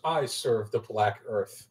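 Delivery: slow, measured in-character declaration; lightly voiced zealous servant; solemn devotee. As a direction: proclaim allegiance with slow gravity. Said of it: "holds up his hand and goes".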